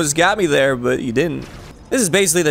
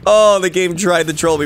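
ordinary talk

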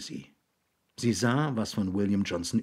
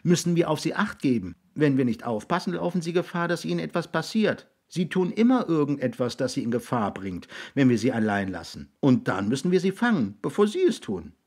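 put-on higher-pitched voice of a boy; earnest boy; 7 semitones higher than usual. Jix explains to William why they watch him, earnest boy.

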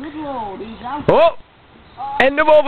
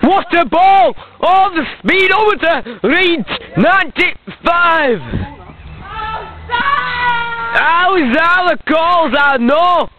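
higher-pitched excited match call; mock cricket commentary; 6 semitones higher than usual. Commentator reacting to a great ball, excited mock commentary.

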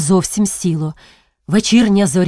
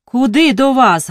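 snapped; 5 semitones higher, 3 dB louder than usual. Acted. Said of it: "гаркнула дячиха".

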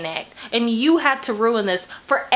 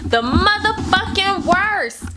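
exasperated; 6 semitones higher, slower than usual. Real, not acted. Emphatic complaint about men.

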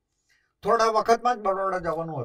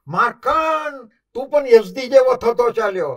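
angry rebuke; 7 semitones higher, 10 dB louder than usual. Retold or imitated. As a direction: scold a senior actor in anger. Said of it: "એ ગુસ્સે થાય".

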